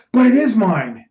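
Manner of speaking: high-pitched, emphatic protest; indignant insistence. Acted. Ernest protesting to his friend that he owns the play, indignant. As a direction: burst out claiming what is yours.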